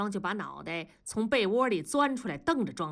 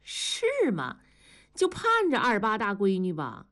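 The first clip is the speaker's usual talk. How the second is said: cold sneer; 2 semitones higher than usual. Acted. Wife mocking her husband's boast, cold sneer. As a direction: scoff coldly, pitched up at first. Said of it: "庄嫂冷笑地说".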